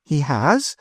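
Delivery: quickly. A narrator's reading. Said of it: "said Madame de Thou quickly".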